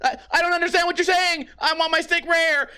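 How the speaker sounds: high, insistent mock cry; confused diner. Diner ordering from Japanese-speaking chef, high exasperated mock plea. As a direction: pitch it way up, struggling to be understood.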